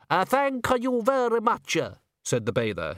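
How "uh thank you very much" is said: put-on high, slow, heavily accented foreign thanks; thick Italian-style accent. A narrator's reading. Bather thanks servant through the door, dripping with Italian-style accent. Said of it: "his voice dripping with accent".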